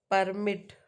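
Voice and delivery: "permit" with the weight on the first syllable, noun style; PER-mit, first syllable leaning harder; first-syllable stress. Shown as a demonstration. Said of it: "stress on the first syllable".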